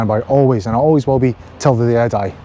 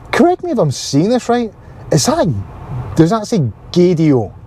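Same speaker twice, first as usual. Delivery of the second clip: much higher, incredulous question; surprised disbelief; 4 semitones higher than usual. Real, not acted. Spotting the radio station name, surprised and much higher. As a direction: sound like you can't believe your eyes.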